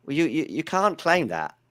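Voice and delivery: a hint of Larry, slow, stammering protest; indignant Larry. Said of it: "then Larry's like".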